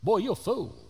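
high-pitched chiding voice in the head; little inner voice. Retold or imitated. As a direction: scold yourself in a small, high voice. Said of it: "that little voice that sounds like my voice".

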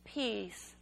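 softly repeated, each word falling and set apart; prayer-like. Retold or imitated. Tired mother to her screaming son, soft prayer-like repetition. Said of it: "like a prayer".

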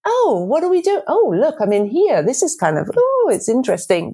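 lightly acted baby's high-pitched wondering; curious wonder. Coach voices a baby who isn't urgently crying, mild curiosity. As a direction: play a mildly intrigued baby, pitch popping up on each "oh".

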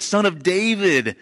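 high, slow pleading call; calling out again. Retold or imitated. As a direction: keep crying it out. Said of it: "And he keeps saying it".

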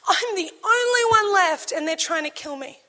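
Elijah's plea breaking, then trailing off; despairing plea. Acted. Elijah pleading to God, voice breaking.

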